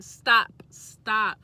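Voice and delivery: loud, sharp stop, stop. Retold or imitated. Cutting off her boyfriend's excuses, a loud stop. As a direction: cut him off hard.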